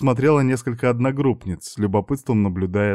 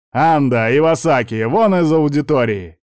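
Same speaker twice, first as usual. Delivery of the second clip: громко и выше, выгоняя из аудитории; гневно выставь их за дверь; грозный окрик; 5 semitones higher, 5 dB louder than usual. A narrator's reading. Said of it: "от его грозного голоса". (профессор выгоняет студентов, грозно и громко)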